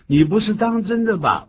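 astonished demo line; acted disbelief. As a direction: exclaim it as if you can't believe it. Acting disbelief from the dialogue.

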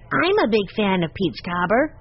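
put-on keen child, stressing I'M; small boy's eager contradiction; eager little boy. A narrator's reading. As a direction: pipe up like a boy after dessert. Benny eagerly claims dessert.

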